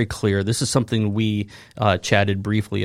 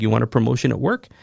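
mock-hyped, higher, chanting the catchphrase; sarcastic sing-song mantra; 7 semitones higher than usual. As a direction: parody eager believers reciting the verse on repeat. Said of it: "in essence saying stuff like".

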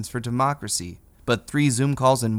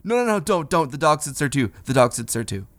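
panicked pleading; 3 semitones higher than usual. Retold or imitated. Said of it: "he said".

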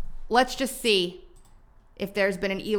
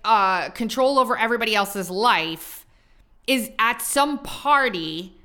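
sarcastic mockery. Real, not acted.

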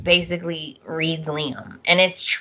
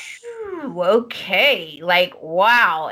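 shocked exhale; much slower than usual. Retold or imitated. Imitating Ridge shocked.

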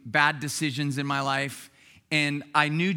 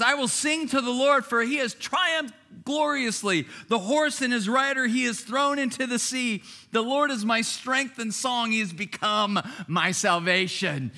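raised, jubilant scripture reading; excited praise; 5 semitones higher than usual. Acted. Israelites singing after crossing the Red Sea, excited praise. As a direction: read it as a thrilled song of victory. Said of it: "They're excited".

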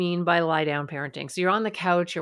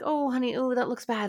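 absent-minded mock sympathy, pitched up; half responding; 6 semitones higher than usual. Mom distracted at work answering her daughter, absent-minded. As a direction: toss off the comfort while still working. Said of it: "kind of half responding to her".

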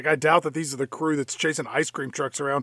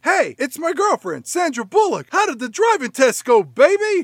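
mock smarmy cop; 8 semitones higher, 4 dB louder than usual. Retelling a cop greeting girlfriend.

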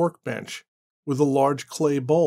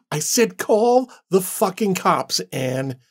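yelled order; 4 semitones higher, slower than usual. Acted. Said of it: "he yelled".

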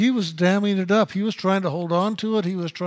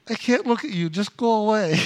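a tearful plea to go away, voice pitched up; imitating crying; 4 semitones higher than usual. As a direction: retell his crying plea, mock-tearful. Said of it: "he started crying".

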